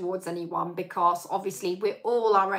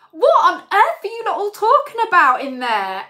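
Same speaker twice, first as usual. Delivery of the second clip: higher, louder call from another room; calling from lounge; 10 semitones higher, 9 dB louder than usual. Retold or imitated. Husband calling from the lounge, mock loud call. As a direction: shout through to the kitchen. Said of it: "he's going".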